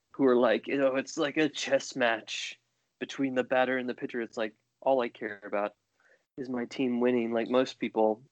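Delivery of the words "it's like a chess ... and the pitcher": documentary talking head. Retold or imitated. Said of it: "talking heads from the Ken Burns documentary".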